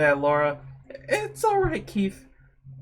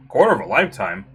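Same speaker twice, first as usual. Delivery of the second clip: incredulous echo; 11 semitones lower, faster than usual. Acted. Hero repeating his own words in disbelief, incredulous. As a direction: throw the phrase back in shock.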